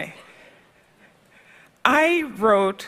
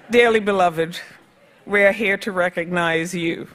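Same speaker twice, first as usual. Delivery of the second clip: mock solemn. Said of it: "so I'm going off script".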